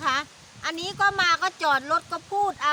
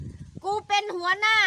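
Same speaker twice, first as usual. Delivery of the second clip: slow, higher yelled boast; retold shout; 7 semitones higher, much slower than usual. Man shouting he is the boss at aunt, slow shout. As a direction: bellow it slowly like a bossy chief. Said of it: "เขาก็ตะโกนบอกเลยว่า".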